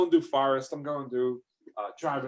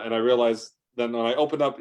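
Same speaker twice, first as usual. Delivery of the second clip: ordinary talk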